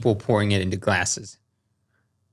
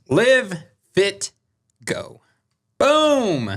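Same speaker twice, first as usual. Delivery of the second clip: ad read. Acted. Sponsor read, slogan.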